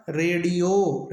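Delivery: रेडियो said slowly with a plain ड, no dot; slow correct pronunciation. Shown as a demonstration. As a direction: dictate रेडियो slowly and clearly. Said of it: "तो शुद्ध होगा". (रेडियो धीरे से, साफ़ ड के साथ)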